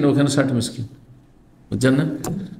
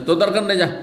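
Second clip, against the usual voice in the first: mock angry husband; 6 semitones higher, faster than usual. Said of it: "রাগ করে স্ত্রীকে বলছে".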